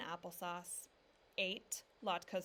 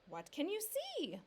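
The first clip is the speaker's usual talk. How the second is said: higher, calling upward; children calling; 9 semitones higher, 4 dB louder than usual. A narrator's reading. Children calling up to Papa in the tree, higher. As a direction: call up to Papa eagerly.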